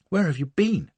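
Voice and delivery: demanding. A narrator's reading. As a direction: press him for an answer, lightly voiced. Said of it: "she demanded".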